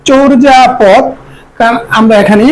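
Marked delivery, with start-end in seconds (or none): 0.1-1.0 চর্যাপদ with a rounded "cho"; correct pronunciation. Shown as a demonstration. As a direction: model চর্যাপদ as "chor-ja-pod". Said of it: "এটা উচ্চারণ হবে". (চর্যাপদকে "চোর্জাপদ" উচ্চারণ)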